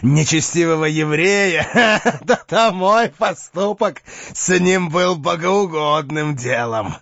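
speaking through strained laughter; grim forced laugh. Acted. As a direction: laugh it off darkly. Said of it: "с мрачным и натянутым смехом".

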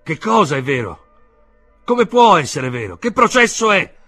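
loud, high-pitched barrage of questions; alarmed shouting. A narrator's reading. Uncle demanding answers from his nephew, shouting. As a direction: shout each question in disbelief. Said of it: "gridò lo zio".

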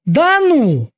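high-pitched astonishment; surprised bosun, pitched well up; Kiki amazed. A narrator's reading. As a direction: react in amazed disbelief with a high voice. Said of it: "поразился Кики".

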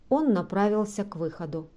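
ordinary delivery, nothing marked

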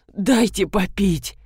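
slow, rasping plea for water; mild hoarse wheeze; hoarse croak. Acted. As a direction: croak it out like a parched throat. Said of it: "прохрипел полковник".

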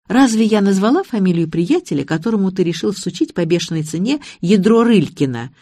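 ordinary delivery, nothing marked

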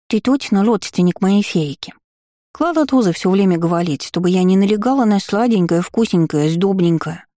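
grinding stone gravel voice. Acted. Gargoyle complains to grandfather.

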